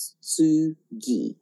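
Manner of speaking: kintsugi said slowly, syllable by syllable, Japanese style; Japanese pronunciation. Shown as a demonstration. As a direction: pronounce kintsugi carefully the Japanese way. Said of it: "My Japanese accent is absolutely horrible".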